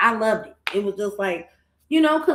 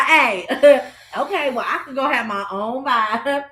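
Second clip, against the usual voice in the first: laughing impression; 3 semitones higher, 4 dB louder than usual. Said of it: "she like".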